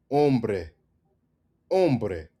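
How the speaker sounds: hombre said om-breh; silent H. Shown as a demonstration. Teacher repeating the correct word, "hombre" with silent H. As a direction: start "hombre" on the O, clear bre. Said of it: "Emphasis on the bre".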